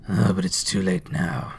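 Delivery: low-key, sighing resignation; muttered regret. A narrator's reading. Scrooge regretting a missed chance, muttering ruefully. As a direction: let it trail into mild regret. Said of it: "Scrooge muttered".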